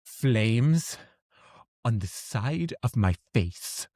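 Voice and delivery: slow, drawn-out mock seething; acted anger. Imitating an angry Clue character, understated slow anger. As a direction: quote an angry film character, slowly and with restraint. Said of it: "she's angry, and she's like".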